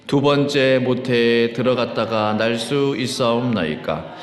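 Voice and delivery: slow, measured congregational recitation; even, drawn-out Bible reading; unison scripture reading. Real, not acted. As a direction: read slowly so a congregation can follow.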